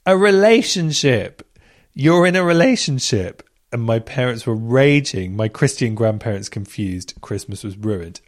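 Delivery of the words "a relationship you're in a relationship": imitated scream. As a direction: shriek it out like the shocked best friend. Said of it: "My best friend screamed".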